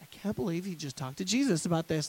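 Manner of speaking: ordinary talk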